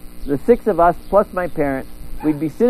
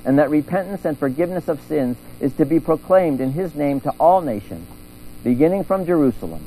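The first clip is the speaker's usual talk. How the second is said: gospel reading; 2 semitones lower than usual. Acted.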